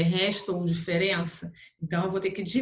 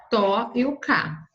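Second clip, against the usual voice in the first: TÓ and CÁ set apart; syllable by syllable; 3 semitones higher, 4 dB louder, slower than usual. Shown as a demonstration. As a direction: sound out each syllable with a gap. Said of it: "aqui vai separar".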